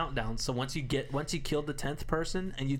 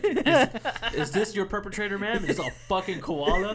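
sketch artist voice; 7 semitones higher, 4 dB louder than usual. Retold or imitated. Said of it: "He's like".

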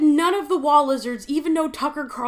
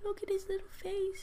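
overwhelmed by cuteness; 7 semitones higher, 13 dB quieter than usual. Real, not acted. Gushing over the lizard.

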